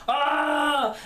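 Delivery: high, drawn-out "ah"; imitated villain noise. Reviewer copying the noise made around the villain, mock cry. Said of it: "They kept doing this, like".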